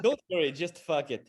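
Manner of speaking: lightly Jamaican singsong; a hint of Jamaican lilt; Jamaican accent. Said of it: "Your Jamaican accent is spot on".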